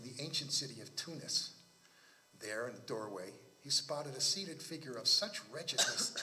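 measured literary read-aloud; story narration. Acted. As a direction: read the tale with deliberate phrasing.

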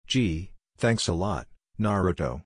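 slow, dry sarcasm; sarcastic. Acted. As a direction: drag out the fake thanks. Sarcastic blame of Naruto.

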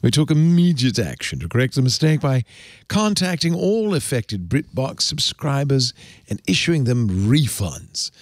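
lightly held fake British accent; cod British accent. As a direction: keep up the put-on British reading. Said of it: "are you doing a cod British accent".

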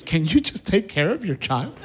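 rising high, pleading wife voice; high hammed-up plea. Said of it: "she says".

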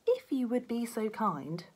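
slow, prissy mimicry of politeness; lightly mocking, overly courteous; mock polite. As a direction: drawl it out like a too-polite cop. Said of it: "mocking his partner's politeness".

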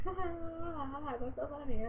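slow words trailing out of a real giggle; tickled by own silliness; laughing. Real, not acted. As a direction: giggle before getting the words out. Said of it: "I don't know why I'm laughing".

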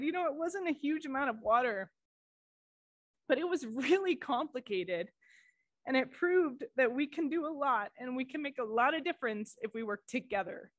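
choked-up quoting of a colleague's words; voice cracking. Real, not acted. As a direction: hold back tears while reading her words. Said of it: "I knew my voice would crack".

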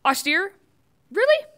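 mock outrage, can't believe the word; incredulous disbelief. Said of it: "He's like".

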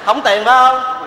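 high, loud, slow stern question. Acted. Uncle grilling broke nephew, loud stern question. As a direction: bark the question down at him.

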